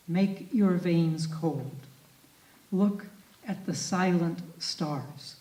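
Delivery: measured, grave reading of a poem; poetry reading. Acted. Lecturer reading Jeffers aloud to the audience, grave poetry reading.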